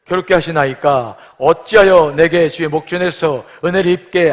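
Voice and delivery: measured, emphatic Bible reading; solemn recitation for a congregation; scripture reading. Acted. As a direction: read the verses aloud with firm cadence. Reads the scripture passage aloud.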